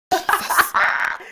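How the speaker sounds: high unvoiced burst of laughter; high breathy laugh-shriek. Real, not acted. Reacting to spinal tap wearing off.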